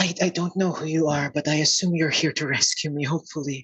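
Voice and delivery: soft-toned voice with words tumbling out rushed. Narrating a game, the speaker voices an unseen stranger addressing Yam and Klappa, soft voice. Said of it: "the soft voice says".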